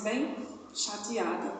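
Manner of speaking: usual speaking voice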